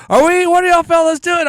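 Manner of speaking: high-pitched, incredulous call-out; cause a big scene with your voice way up; high, showy outburst at the fellas; making a scene. Retold or imitated. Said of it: "I'm making this big scene".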